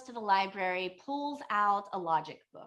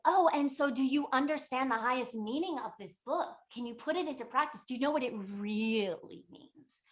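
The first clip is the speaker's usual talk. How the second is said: higher, lightly imitated eagerness; eager questioning; 4 semitones higher than usual. Elated old woman asking about the highest meaning, eager. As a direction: press him with bubbly questions. Elated hag quizzes him.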